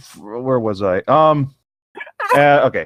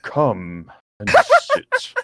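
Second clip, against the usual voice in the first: put-on slow, deep old tree voice; Treebeard voice; 3 semitones lower, much slower than usual. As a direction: drag it out like an ancient tree. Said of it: "I'm trying to do Treebeard".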